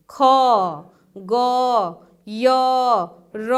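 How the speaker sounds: "ख, ग, य, र" one by one, each ending in अ; अक्षर का उच्चारण. Shown as a demonstration. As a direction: sound out "ख, ग, य, र" separately, letting the final vowel ring. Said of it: "उसमें अ आएगा अंत में". ("ख, ग, य, र" अलग-अलग, अंत में अ सुनाते हुए)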